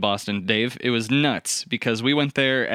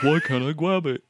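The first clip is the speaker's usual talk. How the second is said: put-on Boston accent; 5 semitones higher than usual. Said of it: "but I wasn't like".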